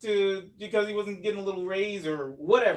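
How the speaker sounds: high, exaggerated incredulous voice; mock disbelief. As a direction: ham up the shock. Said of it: "I was just like".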